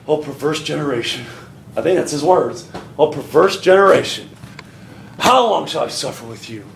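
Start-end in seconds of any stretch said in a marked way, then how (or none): 0.1-1.3 low, soft exasperated rebuke; understated anger, weary with them; restrained anger. Acted. Jesus rebukes his disciples, restrained anger. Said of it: "He said he was angry". 3.0-6.6 low, exasperated rebuke; mild anger, losing patience with them; restrained anger. Acted. Jesus rebukes his failed disciples, restrained anger. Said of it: "He said he was angry".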